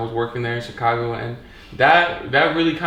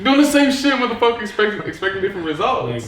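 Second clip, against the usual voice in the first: emphatic; 7 semitones higher than usual. Real, not acted. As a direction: hammer home the point. Punchline about insanity quote.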